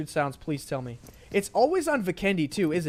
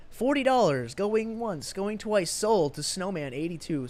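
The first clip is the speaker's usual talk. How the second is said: slow auction call, going once, going twice; drawn-out auctioneer call; 4 semitones higher, slower than usual. Pretend. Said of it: "Feel like an auctioneer here".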